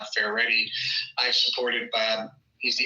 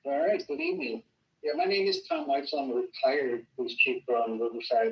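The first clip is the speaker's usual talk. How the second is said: muddy voice; 4 dB quieter than usual. Real, not acted. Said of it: "like you're far away from the microphone".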